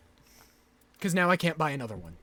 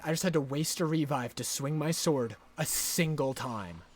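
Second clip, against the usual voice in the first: softer, lower sulky restatement; deflated grumble; 4 semitones lower, 4 dB quieter than usual. Real, not acted. Gamer repeating the wasted-revive gripe, soft and sulky. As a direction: mutter the complaint, beaten. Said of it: "I'm so mad".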